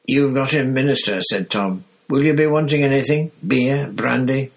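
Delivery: put-on an eager old barman offering drinks; lightly voiced toothless barkeep; old landlord Tom.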